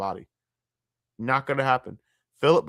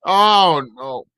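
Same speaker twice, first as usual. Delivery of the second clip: shocked cry; 4 semitones higher, 10 dB louder than usual. Real, not acted. Reacting to awful tattoo photo.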